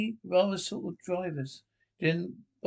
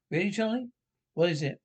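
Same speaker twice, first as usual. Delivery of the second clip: eager, excited; 3 semitones higher, faster than usual. Acted. Wife thrilled by the present.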